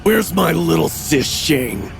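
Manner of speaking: taunting call. A narrator's reading. Brother searching the bedroom for his sister, taunting call. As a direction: call out as if hunting in a game. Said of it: "he called out".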